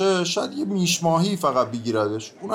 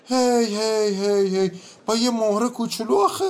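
chuckling; 5 semitones higher than usual. Acted. Peasant chuckles at the charge.

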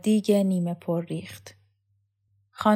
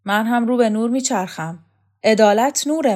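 growling; 3 semitones higher, 6 dB louder than usual. Acted. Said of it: "قهرمان شوکت غرشی کرد".

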